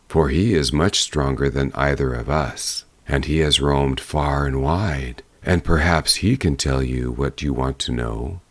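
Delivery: a hint of a humble, low wind; west wind.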